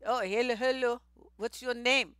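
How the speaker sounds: mock African accent, lightly put on; teasing take on an African accent; imitated African accent. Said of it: "with your accent having ass".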